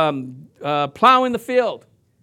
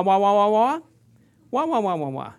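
cartoon teacher wah. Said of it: "all they heard was wah".

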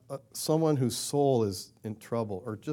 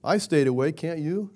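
mock-exasperated, pitched up, scolding sleepy friends; exasperated rebuke; 4 semitones higher than usual. Preacher imagining himself scolding sleeping disciples, mock exasperation. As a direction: chide them like a let-down friend, half-playful. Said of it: "I'd be going".

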